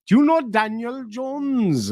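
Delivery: slow, high retold question; high-pitched casual inquiry. Asking a local about a common name, high and drawn out.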